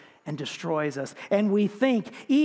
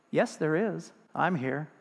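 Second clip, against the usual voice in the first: a lightly lowered, calm voice from above; calm deep voice; 3 semitones lower, 3 dB quieter than usual. Acted. Voice from the sky answering the hanging man, calm and a touch lower. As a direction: answer steady and unhurried, a hint of God. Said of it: "this calm, deep voice said".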